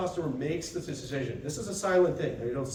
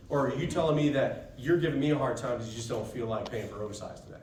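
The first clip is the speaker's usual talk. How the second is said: firm and calm; 3 semitones lower than usual. Shown as a demonstration. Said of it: "very firm and very calm".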